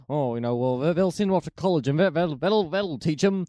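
mock local busybody pronouncing judgement; a hint of opinionated small-town gossip; town talking heads. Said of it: "talking heads in the town being like".

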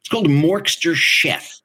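slow, lightly raspy smoker voice; a hint of a smoker's growl; smoker's rasp. Shown as a demonstration. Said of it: "your smoker's cough".

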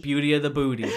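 loud laughing repeat; laughing shout. Real, not acted.

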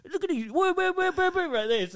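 high, hammed-up lad offering hugs; mock rowdy lad. Continuing rowdy impression.

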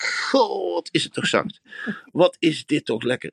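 high, dreamy sigh of pleasure; blissful inner voice. Acted. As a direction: coo it high like a blissed-out runner. Quoted inner thought, blissful. (hoog en dromerig genietend)

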